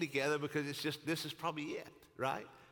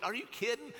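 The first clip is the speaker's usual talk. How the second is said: high-pitched, insistent rebuttal; incredulous arguing; 5 semitones higher than usual. Acted. David rebuts his bestie Jonathan's reassurance, incredulous. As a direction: argue it urgently, pitched up.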